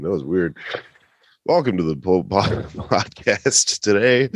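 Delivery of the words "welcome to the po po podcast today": attempted Walken impression. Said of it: "I tried to do Walken".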